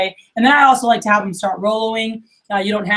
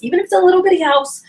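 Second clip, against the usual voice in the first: emphatic; 9 semitones higher, 4 dB louder, faster than usual. Retold or imitated. Pushing a rep to upsell.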